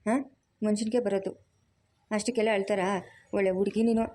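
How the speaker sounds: a mother-in-law who fusses and scolds at once; bossy mother-in-law. Acted. Mother-in-law finds her daughter-in-law crying, scolds and comforts.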